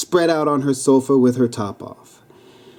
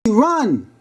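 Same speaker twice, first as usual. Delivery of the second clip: higher, urgent call to flee; shouting; 10 semitones higher than usual. A narrator's reading. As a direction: yell to your friend to get away. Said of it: "Then Nanny shouted".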